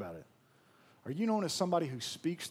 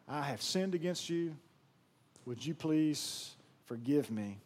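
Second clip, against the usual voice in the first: sincere apology. Pretend. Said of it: "if you said".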